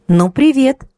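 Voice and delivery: cold, steely greeting. A narrator's reading. Kristina coldly answering her ex, steely tone. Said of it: "ответила Кристина стальным тоном".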